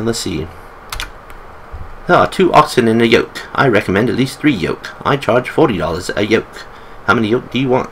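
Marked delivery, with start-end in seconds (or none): 2.1-7.9 put-on lightly done British accent for the old storekeeper; a hint of a British accent, friendly old shopkeeper selling supplies. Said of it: "I make him British".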